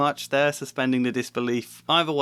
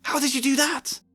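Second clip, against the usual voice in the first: amazed; 14 semitones higher than usual. A narrator's reading. Hermione amazed.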